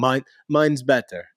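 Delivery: put-on slightly Russian-German accented retort; lightly put-on Russian or German accent; mock Russian-German accent. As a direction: imitate him with a hint of Russian or German. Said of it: "why was he Russian or German".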